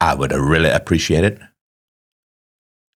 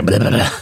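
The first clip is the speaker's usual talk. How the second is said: imitated massage gun; 3 semitones higher than usual. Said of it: "It's like a massage gun".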